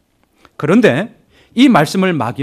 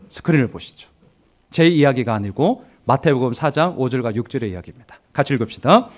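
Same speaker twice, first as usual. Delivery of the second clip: ordinary delivery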